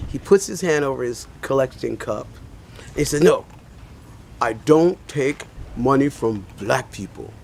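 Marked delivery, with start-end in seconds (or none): 3.2-7.3 slow, deliberate refusal; retold refusal. Beggar turning down a coin from a passerby, slow retold refusal. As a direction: spell out the refusal slowly, word by word.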